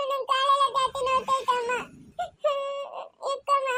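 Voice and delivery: tearful pleading to be carried; crying whine. Acted. Sick child begging mother to carry her, crying. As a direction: whimper through the pain.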